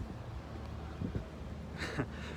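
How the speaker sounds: quiet, voiceless little laugh; low-key real chuckle; soft chuckle. Real, not acted. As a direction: chuckle softly to yourself. Amused aside while walking outdoors.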